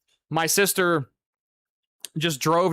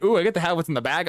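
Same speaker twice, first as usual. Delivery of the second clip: mock excited; much faster than usual. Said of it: "And I'm all excited".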